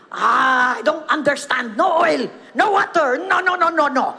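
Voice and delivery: put-on lightly done Japanese-accented English; a hint of a Japanese accent, baffled; Japanese mechanic. Baffled Japanese mechanic tells them the car is dead, in a light Japanese accent. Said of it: "kamot si Hapon".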